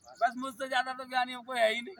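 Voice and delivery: loud, lightly acted self-important scholar; mock know-it-all boast. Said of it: "बस बाबरा हो गए". (हल्की नकल में ज़ोरदार ज्ञानी-घमंड)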